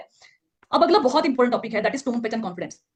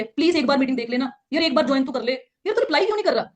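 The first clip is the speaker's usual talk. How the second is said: needy pleading; 3 semitones higher than usual. Shown as a demonstration. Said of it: "वीक communication कैसी होती है".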